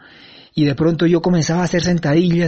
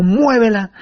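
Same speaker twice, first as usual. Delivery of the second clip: quoted command; 5 semitones higher, slower than usual. Retold or imitated. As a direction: repeat it as a firm command. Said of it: "como el maestro dijo".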